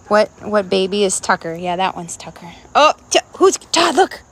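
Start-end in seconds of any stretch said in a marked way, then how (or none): 2.7-4.2 high, loud delighted call; excited. Real, not acted. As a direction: call out, thrilled. Excited at dog.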